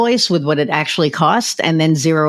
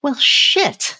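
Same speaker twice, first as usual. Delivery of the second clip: high, deadpan groan of dismay; musician spotting the sleazy client at her show, dismayed; dismayed aside; 9 semitones higher than usual. Retold or imitated. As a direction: let the dread show as he walks in. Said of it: "I was like".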